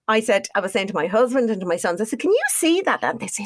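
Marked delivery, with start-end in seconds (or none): 2.2-3.0 worried asking. Retold or imitated. Asking husband and sons, retold.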